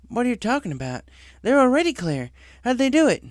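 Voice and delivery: can't believe the skies are clear; surprised. Acted. Applejack asks the weather director who cleared her skies.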